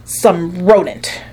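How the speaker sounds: "rodent" drawn out slow with distaste; disdainful rodent. Acted. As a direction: linger on "rodent" with contempt. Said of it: "Nobody says rodent quite the way".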